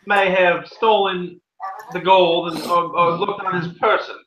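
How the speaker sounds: a hint of a pompous judge; lightly voiced small-town judge; stern judge. Game master voices the judge.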